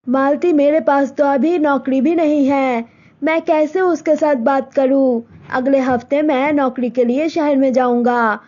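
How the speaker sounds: John comforting Malti about the wedding; reassuring boyfriend. Acted. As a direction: soothe her, promise to come back.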